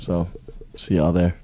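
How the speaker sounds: muffled behind a hand; hand over mouth. Real, not acted. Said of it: "Why are you talking with your hand over your mouth?".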